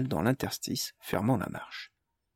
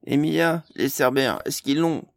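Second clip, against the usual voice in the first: toneless voice; 4 semitones higher, 5 dB louder than usual. A narrator's reading. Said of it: "dit d'une voix blanche".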